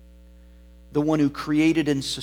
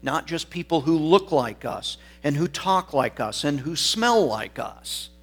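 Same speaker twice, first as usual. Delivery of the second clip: raised, insistent pulpit voice; emphatic preaching; 3 semitones higher, 4 dB louder than usual. Real, not acted. Preacher urging that everybody needs the gospel, emphatic preaching. Preacher drives the point home.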